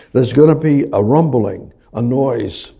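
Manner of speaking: loud, rising preached line; loud fiery preaching. Real, not acted. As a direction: build it up like thunder. Preaching of God's roar.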